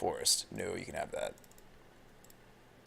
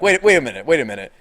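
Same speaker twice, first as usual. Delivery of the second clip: louder, lightly acted double take; mild mock realization; 3 semitones higher, 8 dB louder than usual. Streamer imitates chat getting the joke, mild mock realization. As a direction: play a listener suddenly catching on. Acts listeners realizing it was joking.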